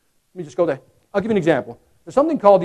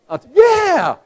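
high, bright eager yes; 13 semitones higher, 7 dB louder than usual. Retold or imitated. Customer offered extra candy, eager high yes. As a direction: grab the offer gladly. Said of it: "What do most people say".

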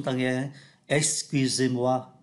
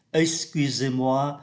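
slow, careful French for learners; slow textbook French; slow model reading; much slower than usual. Shown as a demonstration. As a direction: read it slowly, syllable by syllable. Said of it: "Em cảm thấy không khỏe trong người".

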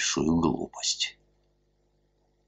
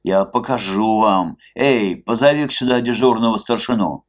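indignant; 6 semitones higher, 5 dB louder than usual. A narrator's reading. Zhestyakov indignantly calls for officer.

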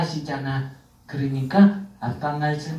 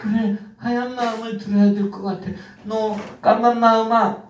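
upset whiny outburst; 4 semitones higher than usual. Acted. Child torn, upset at black heart.

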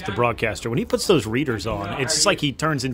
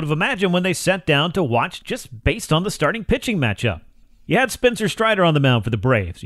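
projected, measured presenter delivery; sports radio monologue; 4 semitones higher, 3 dB louder than usual. Acted. Host recapping the Braves' wild comeback for listeners, radio monologue. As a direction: lean on key words like a radio host.

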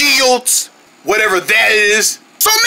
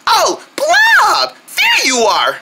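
yelling across the room; 12 semitones higher, much slower than usual. Acted. Spots friend, calls out.

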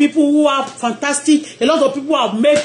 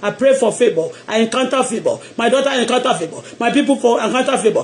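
lowered declaration; 2 semitones lower, faster than usual. Shown as a demonstration. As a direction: model the words for them to echo. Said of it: "Say to yourself".

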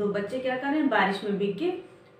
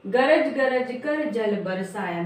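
drawn-out rhyme lines read aloud; slow poem recitation; slower than usual. Shown as a demonstration. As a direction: recite the lines slowly, sing-song. (धीमी कविता पाठ)

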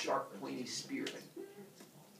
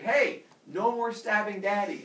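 loud, slow, raised-pitch telling-off; grumpy scolding; 7 semitones higher, 9 dB louder than usual. Acted. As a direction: scold the kids as a hurt dad. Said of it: "it makes him grumpy".

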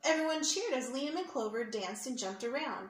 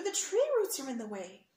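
fretting leprechaun; 2 semitones higher, 5 dB louder than usual. Acted. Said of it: "replied another".

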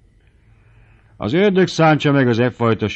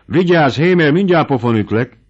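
loud, much higher furious yell; raging threat; 7 semitones higher, 7 dB louder than usual. A narrator's reading. The baron rages at Bubenyik for breaking the glass, shouting. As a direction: blow up at the clumsy servant. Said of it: "dühöngött a báró".

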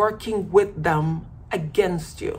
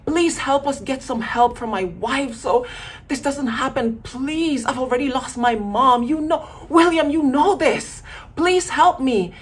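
begging; 2 semitones higher than usual. Retold or imitated. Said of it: "you beg them".

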